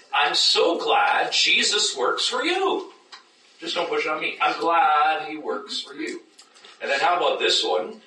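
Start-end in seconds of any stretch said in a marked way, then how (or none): 0.1-6.2 sugar-coat the rejection like a polite Canadian; hammed-up nice-but-no; mock polite brush-off. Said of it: "this is so Canadian".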